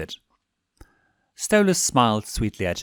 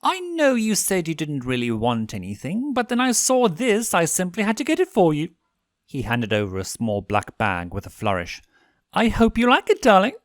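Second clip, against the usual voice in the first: gushing prince; 8 semitones higher than usual. A narrator's reading. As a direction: gush over the gift. Stolas gushing about a gift.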